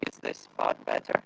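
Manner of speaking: crackling, cutting out; garbled call audio; bad connection. Real, not acted. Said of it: "your voice is, uh, crackling".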